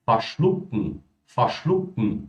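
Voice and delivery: Verschlucken with the en swallowed to a bare n; swallowed ending. Shown as a demonstration. Teacher showing students the swallowed ending in the throat. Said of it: "como eu tô engolindo".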